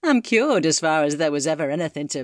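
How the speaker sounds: lightly voiced knowing old woman; old country aunt. Aunt answering Mary's hope, in character.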